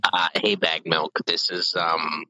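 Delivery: lightly put-on Canadian accent; a hint of a friendly Canadian accent. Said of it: "That accent is impeccable".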